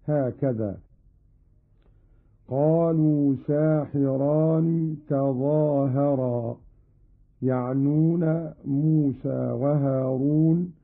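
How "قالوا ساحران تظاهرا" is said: ساحران said saahiraani, long "aa" then "hi"; long alif after sin. Shown as a demonstration. Teacher demonstrates Qalun's reading, ساحران as saahiraani. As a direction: stretch the first vowel of ساحران, slowly: saa-hi-raani. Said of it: "بفتح السين وألف بعدها وكسر الحاء".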